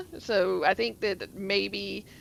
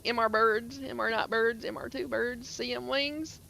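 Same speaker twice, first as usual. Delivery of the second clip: put-on drawled Southern accent; 4 dB quieter than usual. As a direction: mimic locals drawing out their Southern talk. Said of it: "draw it out as much as they do".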